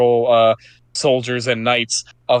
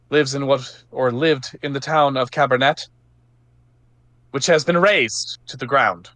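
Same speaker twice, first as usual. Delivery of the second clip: knight addressing crowd; 3 semitones higher than usual. Acted. Johanna addresses the townsfolk.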